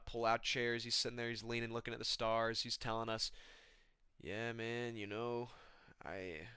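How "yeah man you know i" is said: very soft, quiet-dude impression; Joshua Van. Telling campfire friends a crazy story, very soft-spoken impression. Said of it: "He's too soft-spoken".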